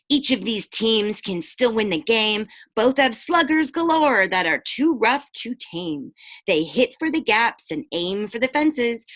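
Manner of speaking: rhyming storybook read-aloud; picture-book narration; reading to children. A narrator's reading. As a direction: lilt the rhyme for the kids. Reads rhyming book to class.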